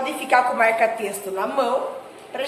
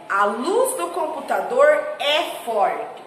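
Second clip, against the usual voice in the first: slow read-aloud; slower than usual. Shown as a demonstration. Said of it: "Mais uma vez".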